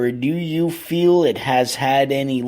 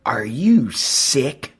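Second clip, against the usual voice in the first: hissed whisper; much slower than usual. Retold or imitated. Father's outraged question to teacher.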